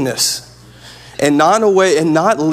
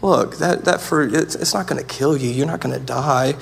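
quietly reasoning, mildly coaxing; friendly tempter; 4 dB quieter than usual. Acted. The enemy reasoning with Adam and Eve in the garden, friendly coaxing. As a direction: lightly play a friend softly talking someone round. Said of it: "He came as a friend".

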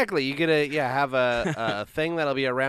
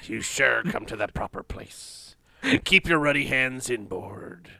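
pirate voice. Acted. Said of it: "Talk Like Pirate Day".

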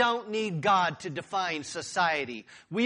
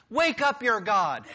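mocking taunt; 4 semitones higher, 3 dB louder than usual. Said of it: "He taunts them".

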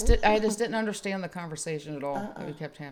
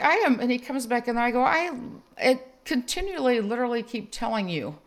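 higher, insistent and exasperated; exasperated insisting; 5 semitones higher than usual. Retold or imitated. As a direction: insist with rising frustration. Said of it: "I'm like".

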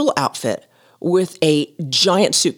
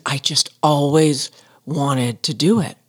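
dreamy; 4 semitones lower, slower than usual. Retold or imitated. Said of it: "with this dreamy face".

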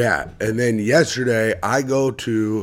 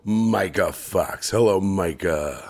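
muffled dark swallowed vowels; Bane voice. Acted. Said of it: "You sound like you swallowed someone".

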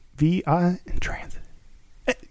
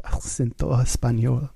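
light mock Spanish accent; hint of Spanish accent; 4 semitones lower than usual. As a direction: say it the Spanish way, playfully. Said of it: "Spanish accent".

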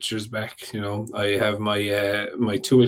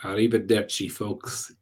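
Italian accent; 4 dB quieter than usual. Shown as a demonstration. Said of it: "in my best Italian accent".

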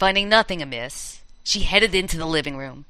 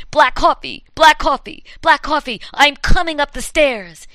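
rising, louder ghostly call; loud high ghost voice; 8 semitones higher, 5 dB louder than usual. Acted. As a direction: build the terror, higher and louder. Ghost voice building.

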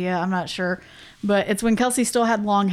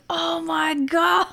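slow realization; 9 semitones higher, much slower than usual. Retold or imitated. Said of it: "everyone's like".

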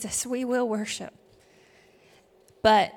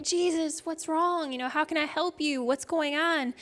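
retold alarmed plea; 6 semitones higher than usual. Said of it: "And he's like".

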